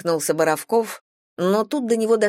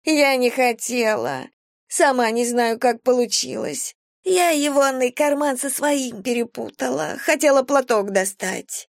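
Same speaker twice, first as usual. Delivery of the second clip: high, pleading vagrant voice; whiny homeless woman; 7 semitones higher than usual. Acted. Vagrant thief excuses herself to the captain, high and whiny. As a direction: talk your way out, high and whiny.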